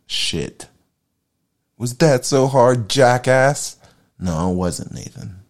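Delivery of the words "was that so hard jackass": raised, louder, slow sarcastic self-reproach; higher, louder mocking question to himself; scolding himself. Real, not acted. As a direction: berate yourself for the flub. Scolds himself after finally getting it.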